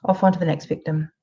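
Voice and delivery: high, breezy uncaring voice shrugging off a death; callous narcissist. Retold or imitated. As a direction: play the narcissist as cheerfully indifferent. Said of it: "They'll be like".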